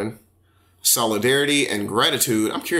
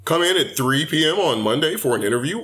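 higher-pitched polite phone manner; interview voice; 5 semitones higher than usual. Acted. Answering a call about a job interview, interview voice. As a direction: put on your best interview voice. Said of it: "you have your interview voices".

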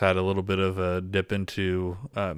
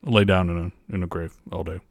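Impression of a singer. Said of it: "So this is Elvis".

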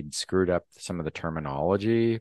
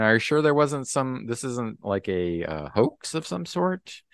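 skeptical newscaster; 5 semitones higher than usual. Retold or imitated. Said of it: "the newscaster is actually kind of skeptical".

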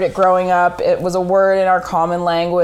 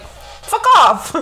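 high-pitched retort as dad; hammed-up outburst, pitched way up; mock shouted comeback; 12 semitones higher than usual. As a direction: imitate dad firing it back. Repeats dad's blunt comeback.

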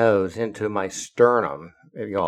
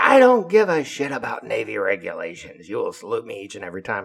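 imitated angry captain; 4 dB louder, faster than usual. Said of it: "he's really pissed off".

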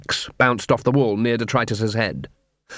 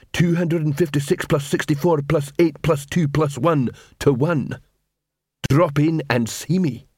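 slightly raised, plodding troll voice; troll watchman; 3 semitones higher than usual. Acted. Detritus points Cuddy to the alley, troll voice. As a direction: talk like a deliberate troll.

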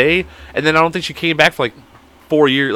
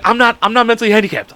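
exasperated confession; 7 semitones higher than usual. Retold or imitated. Retold blurted confession to the girl.

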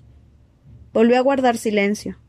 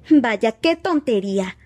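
fed up; 3 semitones higher, slower than usual. A narrator's reading. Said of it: "hartándose".

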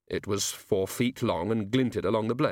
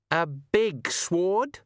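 thoughtful pause; 7 semitones higher, much slower than usual. A narrator's reading. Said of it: "after a pause for deep cogitation".

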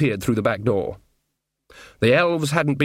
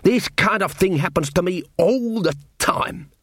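slower, higher put-upon little dwarf; 5 semitones higher than usual. Acted. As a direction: grumble like a hard-done-by dwarf. Dwarf Casanunda complains.

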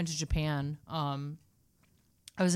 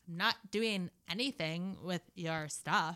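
slow mock socialite; Kardashian parody; 2 semitones lower, slower than usual. Parody sister denying snooping, slow put-on voice. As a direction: draw out the denial, lightly put on. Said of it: "She's like".

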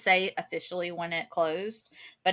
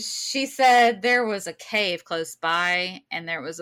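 customer service voice; 6 dB louder, slower than usual. Retold or imitated. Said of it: "my customer service voice".

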